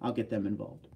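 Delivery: ordinary talk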